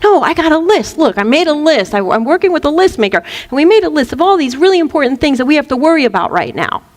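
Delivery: mock insistent worrier, fast; lightly acted pushy, anxious pleading; worrisome thought. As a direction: plead your case in a rush. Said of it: "a worrisome thought".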